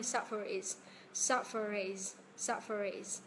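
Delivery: "suffer is" with the r carried into "is"; slow, joined "suffer is", r sounded between the words; linked R. Shown as a demonstration. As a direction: demonstrate "suffer is" as one linked phrase. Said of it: "Nối âm R nhá".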